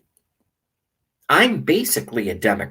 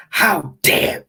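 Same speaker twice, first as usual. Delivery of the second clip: high, louder outraged mock voice; a first go at the outrage, pitched up; wrong take; 8 semitones higher, 4 dB louder than usual. Shown as a demonstration. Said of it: "I did it the wrong way".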